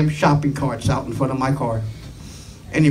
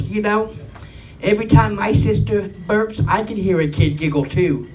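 imitating little boy; 3 semitones higher than usual. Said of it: "the little eight-year-old boy … goes".

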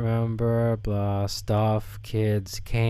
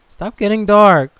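shouting; 8 semitones higher, 11 dB louder than usual. Real, not acted. Yelling at the game.

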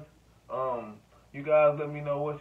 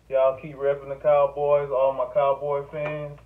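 hype sign-off; 7 dB louder than usual. Real, not acted.

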